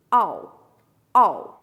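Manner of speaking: "all" said like the English word all, stressed; slow model of "all" as one syllable; pronunciation demo. Shown as a demonstration. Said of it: "a gente vai pronunciar como all". (pronúncia de "all" como a palavra all)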